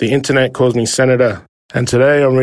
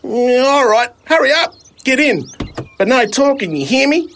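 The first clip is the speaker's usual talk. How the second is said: higher character voice, grudging and bossy; gruff driver; 11 semitones higher than usual. Acted. Driver grudgingly lets the boy in, stern. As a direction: give in reluctantly, then lay down the rule. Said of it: "he eventually said".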